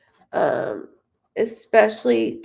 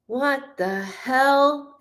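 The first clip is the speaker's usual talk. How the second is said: slow mock disbelief; 4 semitones higher, much slower than usual. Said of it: "the mail was like".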